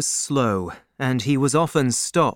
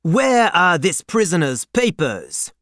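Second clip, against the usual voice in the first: raised, high-pitched demand; loud demand; 5 semitones higher, 4 dB louder than usual. A narrator's reading. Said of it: "loudly demanded".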